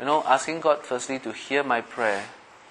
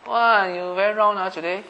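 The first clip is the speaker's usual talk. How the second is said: much higher, teasing small talk; mock gushing remark; 8 semitones higher than usual. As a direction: chirp it like a silly tease. Mocking shallow chit-chat.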